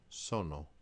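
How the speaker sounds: sono split so-no; single n opens second syllable; Italian syllables. Shown as a demonstration. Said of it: "single consonant in between two vowels".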